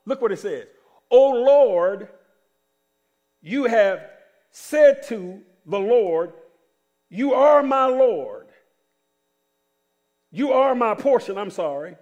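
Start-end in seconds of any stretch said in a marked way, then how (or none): 1.1-11.4 slow, emphatic Bible reading; preached scripture reading. Acted. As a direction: declaim the verse slowly, weighting each phrase. Reads scripture out to congregation.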